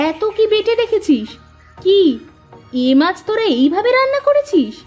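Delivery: acted motherly outrage; scolding mother. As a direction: scold the girls in disbelief at their cooking. Mother scolds daughters over cooking.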